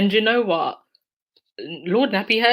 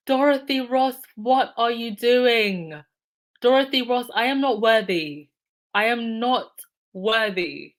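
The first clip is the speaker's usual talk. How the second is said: a touch higher, stunned and moved; overwhelmed; 3 semitones higher than usual. Real, not acted. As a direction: speak as if you can't believe it. Overwhelmed by the donation.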